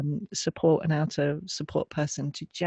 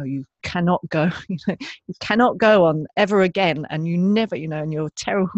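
louder, scolding self-talk; harsh inner critic; 7 dB louder than usual. Retold or imitated. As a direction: berate yourself like a stern parent. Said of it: "I would have coerced myself".

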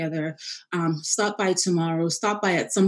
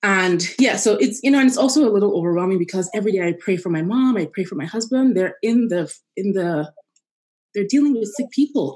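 blubbering; 4 dB louder than usual. Real, not acted. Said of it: "I'm sorry I'm crying".

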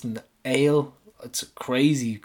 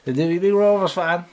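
put-on Athlone accent; 4 semitones higher than usual. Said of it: "I don't know how to do an Athlone accent".

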